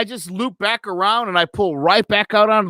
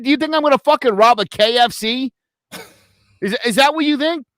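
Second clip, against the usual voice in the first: higher-pitched incredulous challenge; 5 semitones higher than usual. Retold or imitated. Driver to cop suspecting robbery, incredulous. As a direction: challenge the accusation in disbelief.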